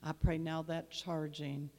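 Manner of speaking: fervent prayer. Acted. Pastor praying over the congregation, swelling then settling. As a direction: pray it out over the church, rising then easing back.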